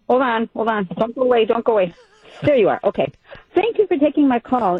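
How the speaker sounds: caller heard through a speakerphone; talking into a phone on speaker. Real, not acted. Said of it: "I've got you on speaker".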